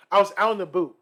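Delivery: mock Canadian "boot" for "about"; teasing Canadian "out in the boot"; imitated Canadian accent. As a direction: mimic a Canadian colleague's oo in "boot". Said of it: "So the person is like".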